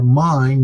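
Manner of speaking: "mine" stressed and stretched for contrast; emphatic mine. Shown as a demonstration. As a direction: lean on "mine", as in not yours. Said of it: "adding some sort of emphasis".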